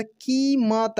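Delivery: कीमत with a drawn-out long ee. Shown as a demonstration. Teacher showing the long vowel, कीमत with a long ee. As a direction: stretch the first vowel of कीमत. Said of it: "long pronunciation होता है".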